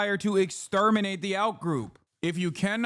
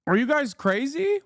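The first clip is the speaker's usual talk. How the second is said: incredulous; 10 semitones higher than usual. Real, not acted. Streamer asking the Nelk Boys if they're crazy, incredulous. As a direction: pitch jumps way up in disbelief. Outraged at the guest booking.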